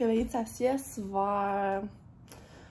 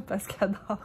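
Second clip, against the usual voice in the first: whisper. Real, not acted. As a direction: drop to a breathy whisper mid-sentence. Daughter asleep in the room.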